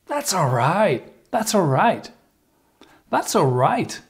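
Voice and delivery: "That's all right" in a friendly sing-song; high pitch intonation. Shown as a demonstration. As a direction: lift "That's all right" to sound happy to help. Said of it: "high pitch intonation".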